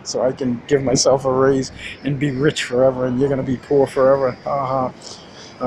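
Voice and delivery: mock greedy politician, fast and gloating; hammed-up gloating politician; gloating crooked politician. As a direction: taunt the voters like a smug crook. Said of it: "he says".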